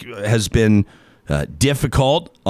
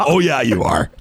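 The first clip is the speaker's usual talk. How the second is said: mock enthusiastic; 2 semitones higher than usual. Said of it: "I shouldn't do enthusiastic".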